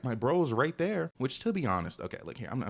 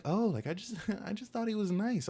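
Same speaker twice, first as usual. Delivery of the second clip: mocking quote; 9 semitones higher than usual. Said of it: "they're like".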